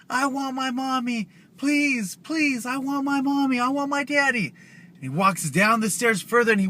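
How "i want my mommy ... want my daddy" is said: high, whiny mock crying child; crying kids. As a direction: plead like a wailing little kid, pitched way up. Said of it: "he hears kids crying".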